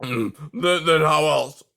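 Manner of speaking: put-on breathless, gasping old voice; out of breath. A narrator's reading. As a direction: gasp it out, winded. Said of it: "gasping from the effort".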